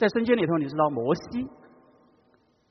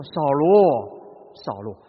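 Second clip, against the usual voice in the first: loving call; 4 semitones lower, 5 dB louder, much slower than usual. Shown as a demonstration. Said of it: "是充满爱的呼唤".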